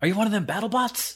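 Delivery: secretive, confiding. Voicing a stranger leaning in close to a robot: quiet conspiratorial voice. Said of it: "to be conspiratorial or, or quiet. He's like".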